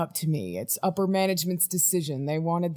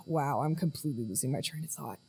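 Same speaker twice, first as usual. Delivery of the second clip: soft, low, deflated mumble; sigh, then drop the voice in dismay; quietly defeated; 4 semitones lower, 7 dB quieter than usual. Acted. Losing the train of thought mid-recording, quietly defeated. Loses the thread while recording.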